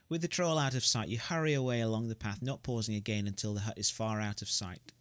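gamebook narration, read steadily; story narration. A narrator's reading. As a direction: narrate the escape for the listeners.

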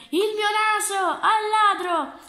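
high, loud, urgent shout; shouting for help. Acted. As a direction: call out as if chasing a thief. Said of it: "gridò il signore". (grido acuto e forte di chi chiede aiuto)

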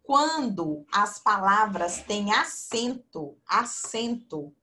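slow, spelled-out rule with acento stressed; slow teacher voice stressing acento; teacher emphasis. Shown as a demonstration. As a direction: drill the rule into them, acento leaned on. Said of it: "regrinha básica".

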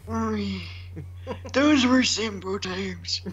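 put-on very old man. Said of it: "I can't do an old man voice".

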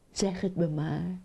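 lightly voiced young husband frog. Young frog coaxing his blushing wife. (licht aangezette stem van de jonge kikker)

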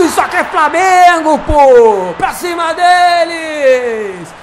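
roaring goal celebration; explosive goal commentary. Real, not acted. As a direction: yell it out, stretched and loud.

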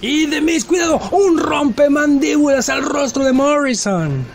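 aguda y sostenida, de comentarista de lucha; narración exaltada. Acted. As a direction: canta el golpe con emoción, en tono alto. Comentario de un golpe repentino. (narración emocionada de lucha libre)

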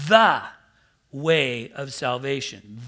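"the" hit hard and loud, then "way of salvation" slow; stress on the. Shown as a demonstration. Preacher showing the congregation the wrong article, with "the" hammered loud. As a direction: punch "the" to mark it. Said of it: "cross this word out".

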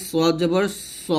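স heavy with a rounded "o" vowel. Shown as a demonstration. Teacher giving an example of the eight letters, স rounded. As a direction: end সদ জবর on a full "so", no "aa". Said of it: "আকার হবে না".

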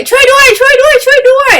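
very high, loud cry for help; the sun calling out desperately. Acted. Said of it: "เขาก็ได้ยินเสียง".

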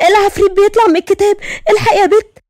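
high, fast panicked cry. Acted. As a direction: shriek for help as the smoke rises. Genie emerging from book.

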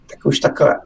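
normal talking voice

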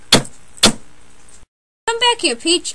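very slow, breathy whisper stretching every word; whispered drawn-out call. Acted. Mario begging Peach to come back, slow whisper. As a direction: drag the plea out in a hush. Second, dramatic take of the call.

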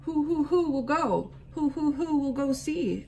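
high owl voice hooting who. A narrator's reading. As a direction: let each who hoot out like an owl. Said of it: "asked the owl of many questions".

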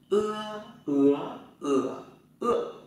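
"Ưa, ứa, ửa, ựa" stepping high, rising, dipping, falling; e read as "ưa". Shown as a demonstration. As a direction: hold and glide each "Ưa" through the tones. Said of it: "sẽ đọc là ưa". (đọc "Ưa" qua bốn thanh điệu)

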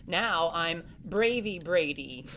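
slow and loud, hamming up the bravery; mock brave boast. Boy joking to his sibling, hammed-up bravado. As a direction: puff up like a pretend hero. Jokey boast after fear talk.

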